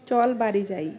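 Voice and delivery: standard Bengali pronunciation. Shown as a demonstration. Urging a companion to go home, standard Bengali. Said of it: "এই কথাটাকে আমরা বলি".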